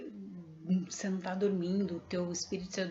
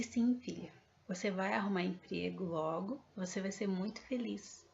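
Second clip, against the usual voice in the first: tender. Retold or imitated. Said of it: "com uma doçura imensa".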